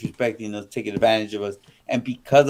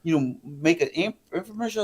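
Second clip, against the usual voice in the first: imitating her jealous rant, pitched up; higher, indignant quoted complaint; retold anger; 5 semitones higher, faster than usual. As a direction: act out her fed-up accusation. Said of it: "she was so mad".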